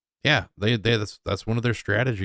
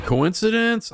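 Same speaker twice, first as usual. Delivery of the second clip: mock wonder; 12 semitones higher, slower than usual. Real, not acted. Sarcastic rhetorical question.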